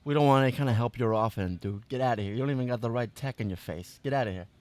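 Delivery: lightly voiced tough street kid; brushing off a stranger, a hint of swagger. Plays a street kid NPC.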